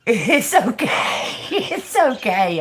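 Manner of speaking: drawn-out words through giggles; real laughter breaking up slow words; laughing. Real, not acted. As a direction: reassure while cracking up. Helpless laughing fit at Joe's mishap.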